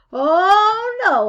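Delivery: put-on high, loud boy's protest; a boy recoiling from the idea; horrified refusal. Boy refuses saddle shoes.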